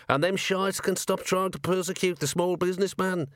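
high, scrappy gnome voice; tough little gnome voice. Acted. Gnome kicking an enforcer, scrappy high voice. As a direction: snarl it out like a tiny brawler. Gnome ratcatcher yelling between kicks.

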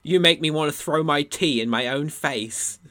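slow, lightly put-on British indignation; a touch of British tea-drinker outrage; mock British. Joining the Leafy-but-British riff, mock British. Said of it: "imagine Leafy but British".

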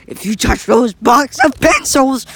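slow, high, menacing villain voice. Acted. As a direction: draw out the threat slowly. Villain threatening over pencils.

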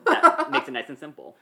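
high, loud laughing aside. Real, not acted. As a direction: laugh while you say it. Laughs at level one.

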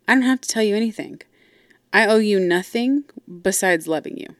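mildly defensive retort, quick at first; defensive dad. Retold or imitated. Dad answering his daughters' question, mildly defensive. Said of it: "super defensive".

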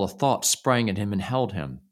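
ordinary delivery, nothing marked

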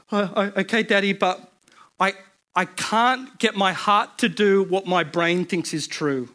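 holding back tears. Retold or imitated. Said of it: "trying not to cry".

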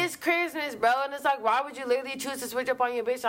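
fired-up disbelief at his betrayal; quick, high-pitched outraged rant; indignant. Real, not acted.

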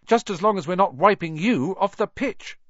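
put-on high anxious girl voice; worried girl. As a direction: fret about his safety. Hermione worried retort.

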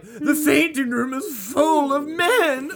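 put-on slow, high old-Hollywood starlet drawl; thirties movie starlet. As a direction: play a swooning thirties film diva. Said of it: "I sound like a movie starlet".

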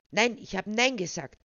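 almost squeak the refusal; near squeal. A narrator's reading. Charlie rejects Chris's advances, almost squealing. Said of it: "quiekte er beinahe".

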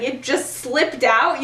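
slow, rising disbelief; incredulous. Retold or imitated. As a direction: throw the words back at him. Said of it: "angry Remus".

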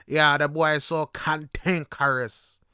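slow Jamaican accent, leaning on "cantankerous"; Jamaican Patois accent. Shown as a demonstration. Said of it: "cantankerous is said so differently".

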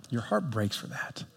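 hushed and heavy on heart breaks; softly heartbroken. Acted. Pastor on betraying God, quiet heartbreak. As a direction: drop almost to nothing.

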